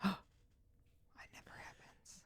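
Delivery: gasp, then slow whisper; hushed playful awe; mock amazed whisper. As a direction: whisper it like a rare miracle. Mock amazement at rare comment.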